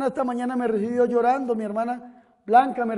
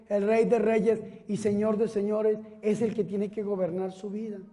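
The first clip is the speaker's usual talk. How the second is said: softer, lower plea; tender appeal; 4 semitones lower, 6 dB quieter than usual. Real, not acted. Preacher to each listener, in a softer, lower plea. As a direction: draw them in gently. Soft appeal after shouting.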